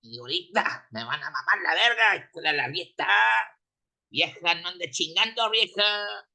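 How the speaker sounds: a fan whose team just lost, swearing at everyone; furious Mexican fan. Acted. A fan whose forty-niners lost, yelling insults in anger. Heartbroken 49ers fan rants in Spanish.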